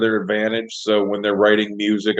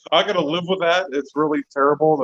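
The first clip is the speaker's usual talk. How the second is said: mock solemn; 2 semitones higher than usual. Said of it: "You're all serious".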